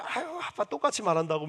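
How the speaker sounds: imitating a daughter. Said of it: "맨날 싫다고 그래요".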